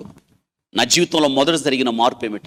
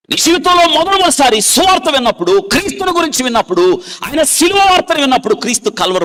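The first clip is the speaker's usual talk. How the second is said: much higher, loud preaching cry; full-force preaching; 14 semitones higher, 5 dB louder than usual. Acted. Preacher asks each listener about first hearing the gospel, loud and high. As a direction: call out to every listener.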